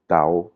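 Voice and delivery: TAO drawn out on a low tone; "tao" as a low Thai tone. Shown as a demonstration. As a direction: let "tao" sink and stretch it slowly. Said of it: "Un son bas, par exemple".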